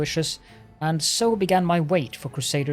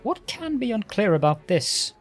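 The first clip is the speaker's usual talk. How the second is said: irritated lich. Acted. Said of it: "The Lich exclaims in irritation".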